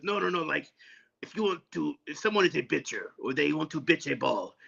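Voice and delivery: lightly imitated Arabic accent, P said as B; light Arabic accent, bitcher for pitcher; teacher's Arabic accent. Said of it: "kinda gruff voice".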